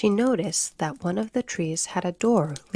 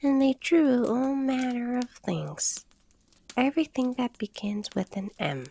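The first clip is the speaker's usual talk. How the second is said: sleepy; 7 semitones higher than usual. Acted. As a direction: drag it out half asleep. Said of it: "for it was getting very sleepy".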